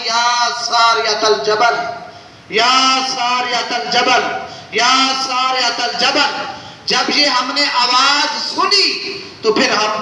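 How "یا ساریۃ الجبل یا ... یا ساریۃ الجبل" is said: voice from the unseen. Retold or imitated. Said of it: "بس غیب سے آواز آئی".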